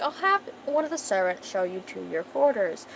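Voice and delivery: put-on lightly posh, regal accent; posh queen. Posh queen sends guests to their quarters, regally posh. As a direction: announce it in a posh royal manner. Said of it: "like I said, she's a posh bitch".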